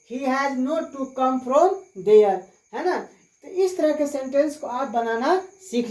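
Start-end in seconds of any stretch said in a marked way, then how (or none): 0.1-2.4 very slow, each word spelled out for students; slow dictation. Shown as a demonstration. Teacher dictating the English answer to students, very slowly. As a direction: say it slowly so students can write. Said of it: "teacher dictates answer".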